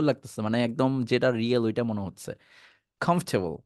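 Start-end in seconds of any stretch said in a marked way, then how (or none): 3.0-3.6 কমফোর্টেবল as "KHOMF-te-bol", pitched lower; the real pronunciation. Shown as a demonstration. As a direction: drop the "or" from কমফোর্টেবল. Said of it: "এটা হচ্ছে আপনার আসল উচ্চারণ". (কমফোর্টেবল, আসল উচ্চারণে কমফ-টে-বল)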